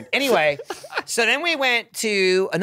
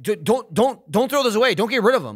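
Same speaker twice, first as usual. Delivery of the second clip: pleading; 4 semitones higher than usual. Retold or imitated. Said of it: "Pasta Pete's like".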